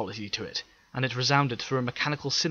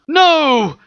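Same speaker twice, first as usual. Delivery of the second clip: sudden higher, louder cry of No; shout; 15 dB louder than usual. Acted. Teppel seeing the beam fire at Tycho, shouting. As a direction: yell out to stop it. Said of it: "Teppel shouted".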